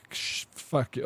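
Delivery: whispered under the breath, sh- fuck it; a frightened aside to himself, breathy and hushed; scared whisper. Retold or imitated. Retelling the doctor's bad news, a whispered curse.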